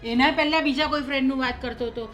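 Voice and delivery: worked-up, exasperated complaint; angry disbelief. Acted. Mother-in-law doubting the son's accident stories, angry. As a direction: pile up the excuses indignantly. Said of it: "તમે ગુસ્સો ન કરો".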